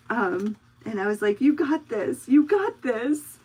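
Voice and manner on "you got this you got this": higher, louder pep talk, quoting herself; retold encouragement. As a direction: cheer on a nervous beginner. Encouraging the nervous trainee.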